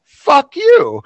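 high, loud joking curse; mock outraged shout. Friend reacting to the Facebook news, mock shout. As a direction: fling it out as a fake-furious outburst. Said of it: "my initial response was like".

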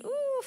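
high-pitched "ooh" of wincing realization; drawn-out "ooh". Real, not acted. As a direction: let out a long, high "ooh". Reacts to a hard point.

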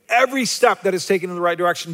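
fast, flatter repeat of "Every step that is taken in the right direction"; quick echo. Shown as a demonstration. Preacher repeating to the congregation, fast echo. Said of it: "He celebrates every step that is taken in the right direction".

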